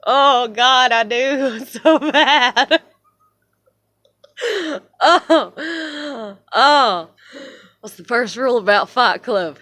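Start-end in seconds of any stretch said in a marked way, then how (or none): 0.0-2.8 loud, drawn-out overwrought wail; anguished wail. Real, not acted. Overwhelmed by anger mid-rant. 5.0-7.1 high sobbing "oh"; overwrought sob. Real, not acted. Breaks down after the outburst.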